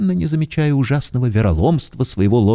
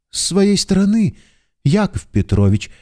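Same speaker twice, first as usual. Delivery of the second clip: animated; 8 semitones higher than usual. A narrator's reading. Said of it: "с одушевлением отвечал наш герой".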